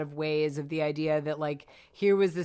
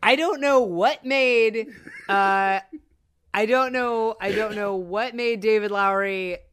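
exasperated; 4 semitones higher, 6 dB louder, slower than usual. Real, not acted.

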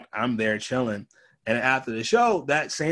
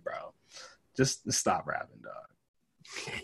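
put-on drunk mumble; 8 semitones lower, 9 dB quieter, much slower than usual. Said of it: "I was drunk off Ciroc".

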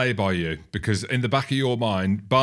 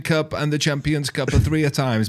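put-on much higher broken-English French accent; mock French accent; 5 semitones higher than usual. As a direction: complain like a miffed French coach. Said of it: "why we speak like that".

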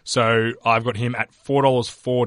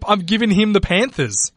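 too close to the mic, overloaded; clipping distorted mic; 8 semitones higher than usual. Real, not acted. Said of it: "stop yelling into the microphone".

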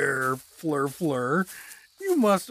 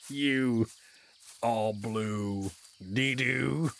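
put-on drunken giggling taunt; 5 semitones lower, 4 dB quieter, much slower than usual. Drunk Doug mocking her.

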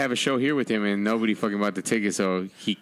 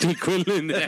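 substitute teacher voice; 8 semitones higher than usual. Retold or imitated. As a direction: bark the name like the teacher. Friends quoting the skit.

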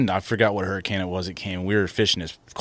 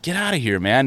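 mad dismissal; 4 semitones higher than usual. Retold or imitated. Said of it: "Just mad".

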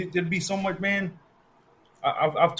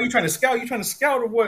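mock challenge; 9 semitones higher than usual. S0 teasing S1 about scouting, high mocking challenge. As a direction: needle him in a high voice.

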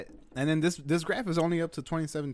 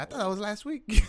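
laughing; 7 semitones higher, 4 dB louder than usual. Retold or imitated. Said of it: "She was over here".

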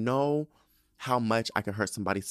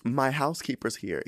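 fake breezy excuse; 5 semitones higher than usual. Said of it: "And I was like".

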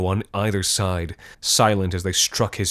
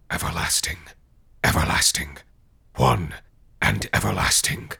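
echoing ethereal energy being; 2 semitones lower than usual. A narrator's reading. Spirits answer in chorus.

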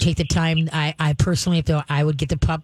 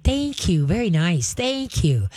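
praising voice; slower than usual. Shown as a demonstration. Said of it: "start recognizing good behavior by saying".

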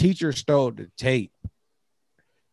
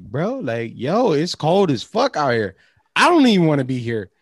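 lecturing the ducks; 2 semitones higher, 5 dB louder than usual. Retold or imitated. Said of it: "I'm sitting there like".

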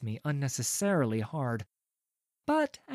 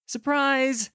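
gleeful surprise; 10 semitones higher, 4 dB louder than usual. A narrator's reading. Narrator's gleeful aside.

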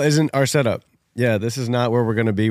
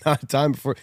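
nervous laugh; faster than usual. Real, not acted. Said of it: "I don't know why I'm laughing".

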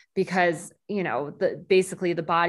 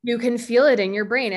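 emphatic; 5 semitones higher, 5 dB louder than usual. Real, not acted. Emphatic agreement, breath exercise.

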